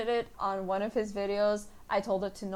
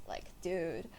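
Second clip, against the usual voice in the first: stoner voice; 3 dB louder than usual. Shown as a demonstration. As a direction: lean into a laid-back stoner tone. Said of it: "This tone of voice".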